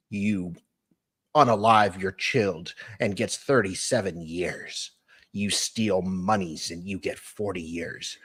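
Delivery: measured, deliberate reading voice; spaced-out, careful delivery; comment read-out. Acted. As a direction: read it out slowly with pauses. Reads comment in put-on voice.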